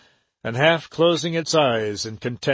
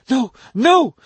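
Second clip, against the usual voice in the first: much higher and louder, harsh and ringing; harsh ringing cry; 11 semitones higher, 6 dB louder than usual. A narrator's reading. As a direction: ring it out in protest. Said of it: "in a voice suddenly harsh and ringing".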